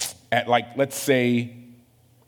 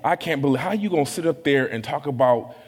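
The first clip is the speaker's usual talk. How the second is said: self-righteous mock rant. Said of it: "just my go-to".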